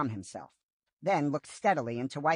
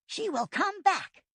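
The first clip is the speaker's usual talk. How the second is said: slow, higher and steady; earnest promise. A narrator's reading. Firepaw reassuring Whitestorm, slow earnest promise. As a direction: promise it slowly and firmly. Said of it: "Firepaw promised".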